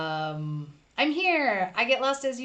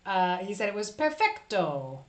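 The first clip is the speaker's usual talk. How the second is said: put-on Italian accent; slower than usual. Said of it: "Clearly, I can't do an Italian accent".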